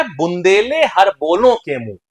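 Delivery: slow, emphatic verse fragment; poem recitation. Shown as a demonstration. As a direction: recite it slowly, word by word. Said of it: "तो उसमें बोलता है". (धीमे लय में कविता पाठ)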